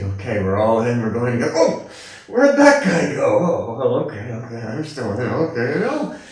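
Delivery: a hint of panic as chairs vanish; anxious seeker. Seeker watching others drop out, nervous mock.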